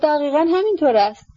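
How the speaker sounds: eager, delighted agreement; with great enthusiasm. Acted. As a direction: praise him with rapture. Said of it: "با وجد بسیار گفت".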